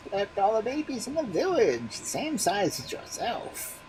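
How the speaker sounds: the bones give orders; magic bones. A narrator's reading. Magic bones instructing the baby, high.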